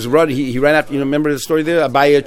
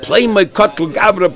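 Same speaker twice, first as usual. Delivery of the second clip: a hint of a dying man, higher and slow; mock dying gasp, raised and slowed; dying man's words; 6 semitones higher, slower than usual. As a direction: lightly act the dying words, drawn out. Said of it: "the words were coming out of his mouth as he was dying".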